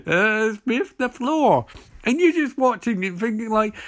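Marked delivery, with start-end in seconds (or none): 0.1-1.6 slow, drawn-out mock French accent with hesitant uhs; hammed-up French accent. Handsome Frenchman introducing himself to Emily, mock French accent. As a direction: play the cliché French charmer in a thick French accent, taking your time. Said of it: "handsome Frenchman who's like".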